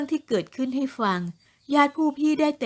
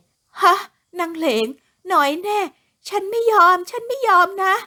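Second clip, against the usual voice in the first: much higher, louder, shrill shocked outburst; shocked loud cry; 9 semitones higher, 5 dB louder than usual. Acted. Jealous wives hear Leng may become third wife, shocked outcry. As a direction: burst out in outraged shock. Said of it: "แล้วอุทานเสียงดัง ด้วยความตกใจ".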